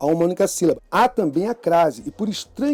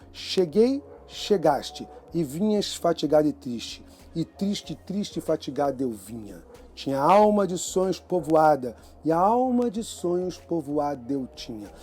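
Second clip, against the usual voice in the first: softer verse recitation, words linked together; rhythmic verse reading; 4 dB quieter than usual. Shown as a demonstration. Teacher reciting a sonnet to show its metre, rhythmic verse reading. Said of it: "pelo ritmo que ele impõe".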